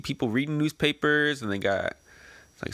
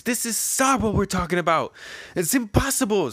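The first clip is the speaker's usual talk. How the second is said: Ivankov voice; 9 semitones higher than usual. Acted. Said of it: "So this is Ivankov talking".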